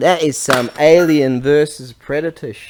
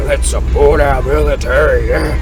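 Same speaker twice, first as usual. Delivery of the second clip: mock tough guy. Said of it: "I have to talk in a tougher voice".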